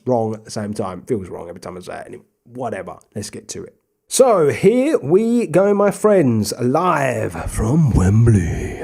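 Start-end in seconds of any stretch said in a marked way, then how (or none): 4.1-8.8 slow, drawn-out big-match intro; mock commentator opening. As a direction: announce it like a TV commentator. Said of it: "I don't know why I've done that".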